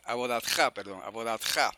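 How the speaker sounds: abodatja with the accent on final "tja"; stress on last syllable. Shown as a demonstration. Teacher correcting own slip, final stress. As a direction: land on the end of abodatja. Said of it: "la palabra es aguda".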